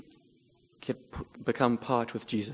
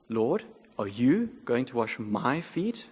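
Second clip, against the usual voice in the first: indignant; slower than usual. Retold or imitated. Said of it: "he's feeling indignant".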